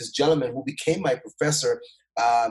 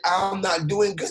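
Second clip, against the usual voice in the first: higher, drawn-out grumble with attitude; retold attitude; 7 semitones higher than usual. Frustrated student answering the old lady, retold with attitude. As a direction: answer back slowly, with mild mock attitude. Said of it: "I gave her so much attitude".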